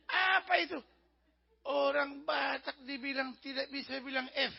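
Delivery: mock-indignant Batak accent, "fitnah" with a P for F; angry Batak accent. Batak man denying he can't say F, mock-angry Batak accent. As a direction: act an offended Batak, drawing out "Dasar fitnah" slowly. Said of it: "kayak orang Batak marah-marah, dia bilang".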